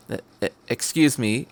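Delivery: nervous stammer that won't come out. Acted. Shy boy stammers at a stranger on the train, nervous. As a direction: trip over the first sound, quiet. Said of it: "It didn't really come out".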